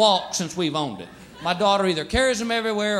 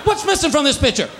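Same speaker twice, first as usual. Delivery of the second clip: mock wounded cat; 5 semitones higher than usual. Neutered cat complaining to its owner, hammed-up indignant. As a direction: play the cat fishing for guilt. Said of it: "It's like".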